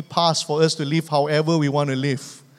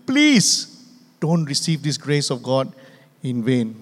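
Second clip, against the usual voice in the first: pleading Paul; 4 semitones lower than usual. Retold or imitated. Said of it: "So Paul is pleading with you".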